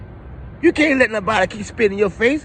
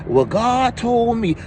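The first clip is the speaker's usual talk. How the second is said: mock preacher; 3 semitones higher, slower than usual. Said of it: "backwoods ass preachers always talking about".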